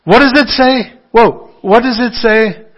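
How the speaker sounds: high, loud call to the congregation; fired-up preacher. Retold or imitated. Minister calling out to his congregation, loud and high. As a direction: rouse the church like a black preacher. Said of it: "And the minister would say".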